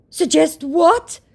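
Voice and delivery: very high, slow, baffled; mock clueless scammer. The confused scammer asking what she means, high and slow. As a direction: sound utterly lost. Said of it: "said my potato".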